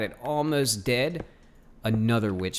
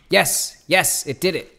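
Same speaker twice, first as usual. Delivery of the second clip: higher, louder shouts of joy; triumphant cheer; 6 semitones higher, 6 dB louder than usual. Real, not acted. Gamer cheering when the spawner works, excited yell. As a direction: celebrate the win out loud.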